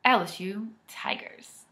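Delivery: whisper. Acted. Playful whispered team name.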